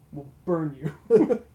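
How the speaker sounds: slow, heavy threat, each word weighed; slow menacing threat to a guard. Acted. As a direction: lean in and promise pain. Odeon intimidates the guard.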